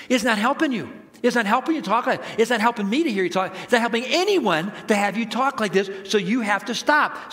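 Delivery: acted reprimand. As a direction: press the point in a mock telling-off. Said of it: "begins to reprimand him".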